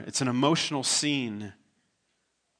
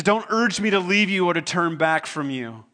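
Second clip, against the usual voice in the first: building louder and higher; impassioned vow; 3 semitones higher, 4 dB louder than usual. Retold or imitated. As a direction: pour your whole heart into the promise. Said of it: "And she says".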